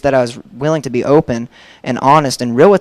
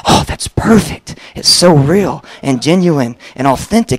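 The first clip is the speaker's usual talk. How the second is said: mock-gush with a soaring, stretched-out opening; gushing approval; 2 semitones higher, 3 dB louder, slower than usual. Friend delighted by the confession idea, gushing. Retold gushing reaction from Ricky.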